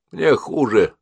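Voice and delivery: lightly voiced grumbling old patient; a touch of stubborn complaint; old woman complaining. A narrator's reading.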